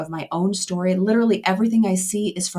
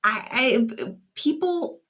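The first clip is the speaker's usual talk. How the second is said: teary; 3 semitones higher than usual. Real, not acted. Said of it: "Sorry, I'm a little teary here".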